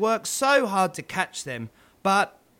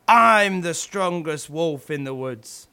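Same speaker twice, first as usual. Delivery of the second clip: lightly voiced wolf, louder, proud boast; 2 semitones lower, 4 dB louder than usual. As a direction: puff up like the biggest wolf in the woods. Two wolves boasting, competing.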